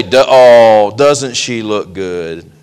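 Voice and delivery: slow admiring mourner's coo; drawn out like mourners at a casket. Retold or imitated. Mourners filing past, cooing over the body. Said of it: "they're gonna all say".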